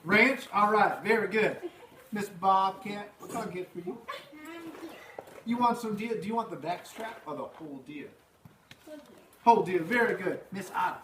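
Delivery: hammed-up diner cook rushed off his feet; Earl the cook. Teacher as cook Earl takes the kids' orders, hammed up.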